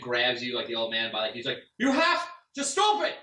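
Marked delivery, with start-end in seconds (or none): 1.8-3.2 high, loud, slow desperate yell; tearful NPC yelling at the old man. Acted. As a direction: scream it at him, grabbing him. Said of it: "he kinda yells at you".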